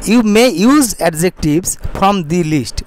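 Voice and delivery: very slow, careful English reading; slow model reading. Shown as a demonstration. Teacher reading the sentence slowly to students. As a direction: read it word by word for the class. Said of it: "slow model reading of English".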